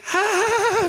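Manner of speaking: high, hollow polite laughter; forced laugh. Retold or imitated. Birthday girl covering her awkwardness with a high fake laugh. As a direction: laugh it off through embarrassment.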